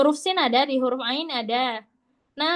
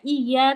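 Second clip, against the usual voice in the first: "iya" leaning on the y, no hum; pressed doubled ya; 4 dB louder than usual. Shown as a demonstration. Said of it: "itu hanya ditekan".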